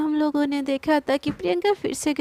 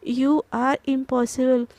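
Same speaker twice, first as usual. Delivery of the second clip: exasperated; 3 semitones lower, much slower than usual. Acted. Exasperated slow line.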